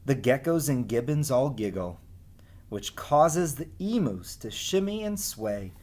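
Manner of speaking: lively sing-song storybook reading; reading to children. Acted. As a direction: read the rhymes as if to a class of kids. Reads rhyming picture book aloud.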